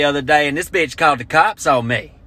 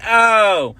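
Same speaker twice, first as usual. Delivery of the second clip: mock pained oh; 7 semitones higher, 4 dB louder than usual. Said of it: "Then she started shouting".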